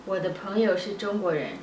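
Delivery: brisk, fluent native delivery; quick native speed. Real, not acted. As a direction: rattle it off like a native speaker. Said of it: "Whoa, it sounds so fast".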